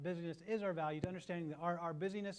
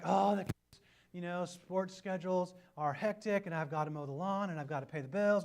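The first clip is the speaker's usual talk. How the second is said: overwhelmed complaining; 5 dB louder than usual. Retold or imitated. Acting out an overwhelmed person.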